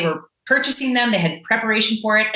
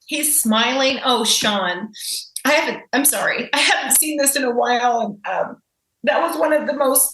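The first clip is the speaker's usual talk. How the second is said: emotional; 5 semitones higher than usual. Real, not acted. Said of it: "I get a little emotional seeing that".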